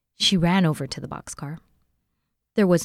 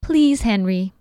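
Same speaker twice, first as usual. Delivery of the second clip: begging; 5 semitones higher, 6 dB louder, slower than usual. A narrator's reading. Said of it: "begged Jessie".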